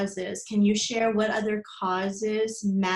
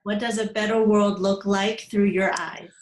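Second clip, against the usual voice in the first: louder, clearly projected question; repeating louder; 5 dB louder than usual. Real, not acted. Interviewer repeats question to guest who said "What's what?", louder. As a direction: speak up for a listener who missed it.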